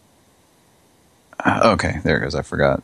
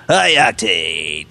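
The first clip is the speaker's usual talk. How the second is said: announcer voice; much slower than usual. Shown as a demonstration. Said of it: "I wish I had a voice like that".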